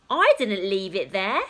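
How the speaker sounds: lightly voiced indignant father; a touch of huffy protest. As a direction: defend yourself to your wife. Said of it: "he protested".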